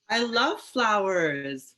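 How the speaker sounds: slow, laughing delight. Real, not acted. Drag queen telling the kids about flowers, laughing. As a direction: laugh the words out, savoring them.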